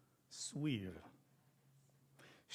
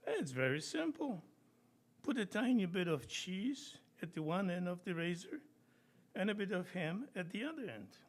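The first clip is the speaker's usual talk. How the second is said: eager inventor; 5 semitones higher than usual. Acted. Inventor explains mousetrap eagerly.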